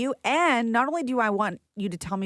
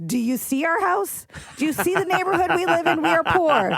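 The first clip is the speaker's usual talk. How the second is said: exasperated big sister; 6 semitones higher, 4 dB louder than usual. Retold or imitated. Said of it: "She's like".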